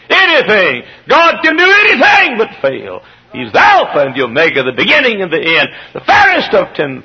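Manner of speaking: very high, loud shout; fiery preacher declaring God's power; preaching at full force. Real, not acted. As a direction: cry it out to the rafters. Sermon climax.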